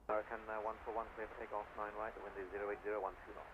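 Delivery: crackly radio transmission; clipped readbacks over the tower frequency; air traffic control radio. Real, not acted. Live tower frequency audio.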